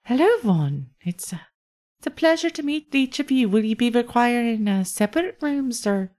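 courteous innkeeper offering rooms; Iolasa the host. Acted. GM voices Iolasa.

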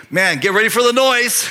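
mock-impressed, hyped-up crowd member; excited onlooker. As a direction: exclaim like a bystander awaiting a big show. Voices onlookers excited at a rich giver.

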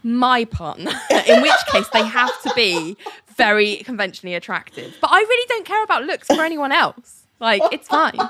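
high, airy self-satisfied voice; mock Ali. Host mocking Ali's smug claims, airy mock voice. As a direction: play a smug delusional unicorn. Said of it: "She's like".

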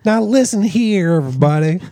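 put-on Southern accent. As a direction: try a mock Southern accent. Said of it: "That's your Southern accent".

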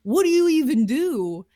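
high, helpless what-do-we-do; bewildered. Retold or imitated. Family staring at ants on the ceiling, high and bewildered. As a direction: throw up your hands at the ants. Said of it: "we're like".

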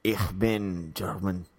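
slow, badly faked German; crappy German. Shown as a demonstration. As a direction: slowly put on a German accent. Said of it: "you speaking crappy German".

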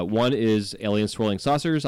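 slurred lisping s sounds; s comes out slushy like sh. Real, not acted. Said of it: "I sound like I'm slurring my S's".

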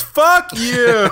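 retold outburst. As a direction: blurt it out like the brother in the cinema. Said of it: "his brother goes".

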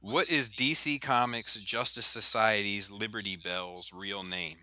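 slow, careful words for a phone; repeating to voice assistant. Real, not acted. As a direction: spell it out slowly for the assistant.

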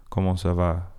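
Parisian French accent, "Comment ça va?" said smoothly and evenly; Northern French accent. Shown as a demonstration. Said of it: "Northern French accent where it's like".

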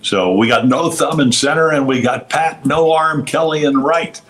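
high sportscaster impression; Harry Caray. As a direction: call out the lineup high, like a broadcaster. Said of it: "Harry Caray comes on".

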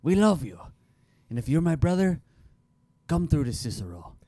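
hammed-up Italian accent; mock-heartfelt Italian-accented appeal. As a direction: plead like an Italian immigrant in the paper. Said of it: "how to do an Italian accent".

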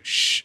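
hushed "shh"; conspiratorial shush. Retold or imitated. Lana shushing the camera, secretive shush. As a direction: shush the listener as if sharing a secret.

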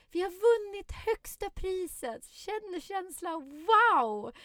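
put-on high, slow ecstatic child cry; kids cheering. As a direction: draw it out in high delight. Kids celebrating the win.

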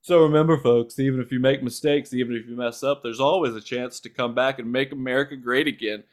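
lightly voiced Trump rally speech, hint of an impression; a mild imitation of Trump addressing the folks. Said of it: "in the style of Donald Trump".

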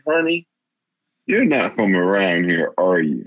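put-on understated Southern store clerk accent, laughing at the end. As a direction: tease the newcomer in a gentle Southern accent. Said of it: "she said with a Southern accent".

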